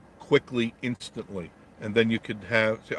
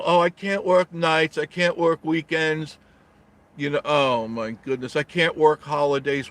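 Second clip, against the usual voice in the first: whiny worker; 4 semitones higher than usual. Retold or imitated. Mimicking workers who refuse night shifts, mock whine. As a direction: drag out the excuses like a lazy worker. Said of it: "I know it so well".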